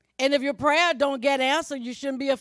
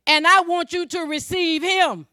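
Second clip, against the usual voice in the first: louder, raised pulpit appeal; emphatic preaching; 5 semitones higher, 7 dB louder than usual. Acted. Preacher voicing Jesus' appeal to listeners, emphatic preaching. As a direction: proclaim it firmly to the whole room.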